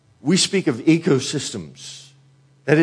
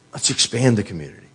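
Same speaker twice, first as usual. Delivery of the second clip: faster, pressing on with the plan; quicker repeat; faster than usual. Retold or imitated. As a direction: rush the repeat a little. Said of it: "one day they said".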